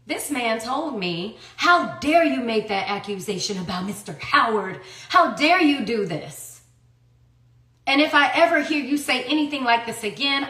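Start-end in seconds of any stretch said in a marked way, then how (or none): 1.6-10.5 mildly indignant, imitating a reprimand; retold judge's scolding. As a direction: scold sternly, as if quoting the judge. Retells judge scolding her in court.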